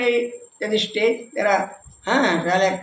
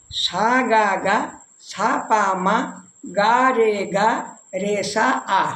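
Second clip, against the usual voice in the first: recited sargam; slower than usual. Shown as a demonstration. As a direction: chant the note names slowly, one by one. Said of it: "আমি স্বরলিপিটাকে বলছি". (ধীরে ধীরে স্বরলিপি বলা)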